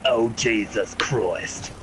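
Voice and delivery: put-on slow, panicky drunk pilot voice, lightly done; a hammed-up frantic call for mom; Independence Day guy impression. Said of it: "the one dude from Independence Day".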